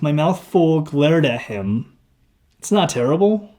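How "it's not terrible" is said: "It's not terrible?" higher, rising at the end; incredulous upward inflection. A narrator's reading. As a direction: echo "It's not terrible?" as a question, pitch climbing. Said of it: "I repeated with an upward inflection".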